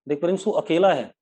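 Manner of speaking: real teacherly telling-off; scolding. Real, not acted. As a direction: start dressing down one pupil. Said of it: "एक बच्चे को डांटना पड़ेगा".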